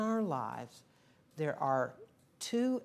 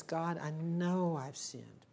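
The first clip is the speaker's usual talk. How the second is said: repentant prayer; slower than usual. Retold or imitated. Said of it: "But the longing says".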